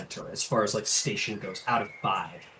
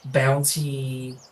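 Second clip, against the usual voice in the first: lightly voiced earnest druid; 2 semitones higher than usual. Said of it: "and she goes".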